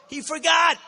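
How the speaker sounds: loud mocking jab at the rival; mocking shout. Real, not acted. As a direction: hurl it at the crowd, mocking. Mocking repeat of rival's excuse.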